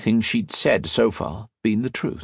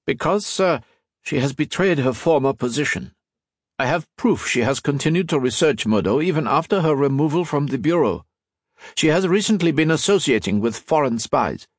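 raised, urgent accusation; a touch higher, pressing each point; lightly voiced earnest agent; 6 semitones higher than usual. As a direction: agent denouncing a colleague to his chief. Disguised agent accusing Brunette.

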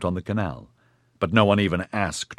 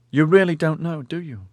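incredulous; 9 semitones higher than usual. A narrator's reading. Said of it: "Cansin said incredulously".

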